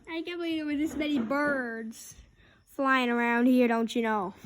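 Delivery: mild Minnesota lilt; a hint of Minnesota nice; Minnesota accent. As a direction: Minnesota accent, don't you know. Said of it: "Would you stop saying, "don't you know".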